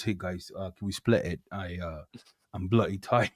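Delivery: low, quiet, worn-out mumble; mock exhaustion, voice sunk low; imitated weary man. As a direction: play him drained, asking softly. Retelling the exhausted giant begging.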